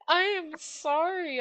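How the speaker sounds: high, slow sorry through a laugh; laughing mock apology. Apologizing to the racer he hit, laughing high and slow. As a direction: laugh while dragging out the sorry.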